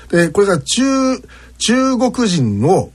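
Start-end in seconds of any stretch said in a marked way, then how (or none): 1.6-2.6 "中国人" drawn out slowly, high in pitch; slow, raised pitch on "中国人"; careful accent demo. Shown as a demonstration. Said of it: "ちゃんと言うと".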